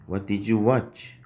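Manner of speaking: very slow, each word laid out; slow model sentence. Shown as a demonstration. Teacher building the question word by word for students. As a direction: spell the sentence out slowly. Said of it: "did you 보다 watch".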